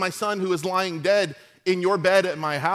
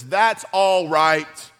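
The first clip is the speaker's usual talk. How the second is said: slow, firm and a bit louder; resolute; 4 dB louder than usual. Retold or imitated. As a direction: calmly shut down the worry. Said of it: "listen to the resolve in this woman's heart".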